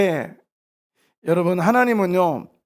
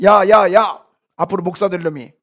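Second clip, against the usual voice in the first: mock scolding; 6 dB louder than usual. Retells adults scolding him as child.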